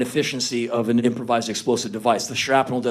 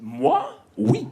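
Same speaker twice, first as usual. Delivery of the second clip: mock French. Mock French answer to fan.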